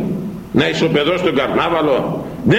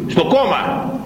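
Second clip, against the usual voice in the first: climbs higher with each question; building fervour; 10 semitones higher than usual. A narrator's reading. Preacher mocking trust in politicians, rising higher each time. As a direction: build up rung by rung.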